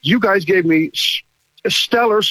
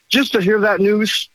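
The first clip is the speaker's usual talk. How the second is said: emotional; 3 semitones higher than usual. Real, not acted. Caller thanking the host for the good news, emotional. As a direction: overcome with emotion, pitch climbing. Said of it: "Did you hear the emotion in that guy".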